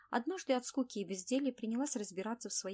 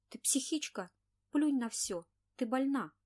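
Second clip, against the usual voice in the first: exasperated scolding; 5 semitones higher, 6 dB louder than usual. Acted. Scolding feverish friend.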